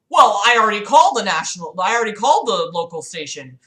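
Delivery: loud, insistent protest; irate caller. Retold or imitated. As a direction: push back loudly as a frustrated caller.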